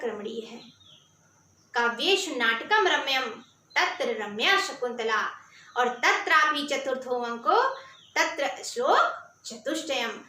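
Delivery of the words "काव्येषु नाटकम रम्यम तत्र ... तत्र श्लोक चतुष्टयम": Sanskrit verse recitation. Acted.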